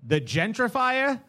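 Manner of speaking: put-on "The gentrifier?" with a Boston accent, slow and drawn out. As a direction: read it like a Boston local. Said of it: "too much of a Boston accent".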